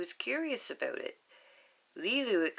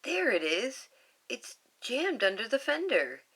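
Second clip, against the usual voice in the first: raised, louder character voice; character line; 6 semitones higher, 3 dB louder than usual. Acted. Reading a storybook line, lightly voiced character. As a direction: read the character's discovery aloud.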